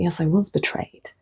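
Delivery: breathy whispered confession; whispered admission. Retold or imitated. Quoting her own admission.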